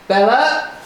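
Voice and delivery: a loud warning call, half laughing; laughing sharp reprimand; harsh tone. Real, not acted. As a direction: scold her sharply through a laugh. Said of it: "a harsh tone in the voice".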